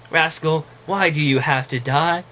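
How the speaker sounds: mild story-voice sadness; a touch of sorrow, understated; sad. Acted. Puppy at mentor's deathbed, mildly sad. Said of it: "Toby said sadly".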